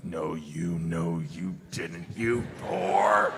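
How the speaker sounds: scolding the book in mock horror, ending in a laugh; mock outrage at a book. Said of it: "and I'm like".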